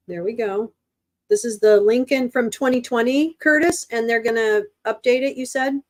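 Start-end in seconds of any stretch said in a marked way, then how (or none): 1.3-5.8 raised, higher voice; needless yelling. Real, not acted. Streamer checking with Curtis about an update, mildly yelling. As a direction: talk a bit too loudly. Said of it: "I don't know why I'm yelling".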